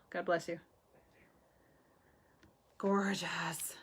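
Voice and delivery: breathy whisper of admiration; soft awed whisper. Real, not acted. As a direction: whisper it in awe.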